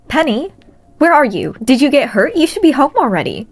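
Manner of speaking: anxious aunt calling her niece home; worried aunt. A narrator's reading.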